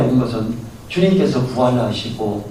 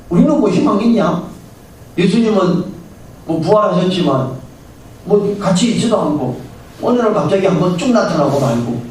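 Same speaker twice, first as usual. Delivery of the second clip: grumbling disciple; 6 semitones higher than usual. Retold or imitated. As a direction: whine about lost hope. Disheartened disciples complain. (높고 크게 투덜대는 제자)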